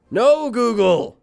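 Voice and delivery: high, drawn-out "no" at a gadget; loud scolding. Real, not acted. Streamer tells off Google for interrupting, loud and high.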